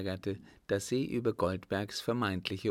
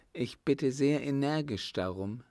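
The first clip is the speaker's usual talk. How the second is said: countess; 5 semitones higher than usual. Acted. Countess demands the truth.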